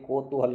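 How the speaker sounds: "कौतूहल" opening on a pure "ko"; wrong pronunciation. Shown as a demonstration. Teacher shows students the faulty form, o vowel. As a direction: say "कौतूहल" as "kotuhal", with o for au. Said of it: "ये गलत है".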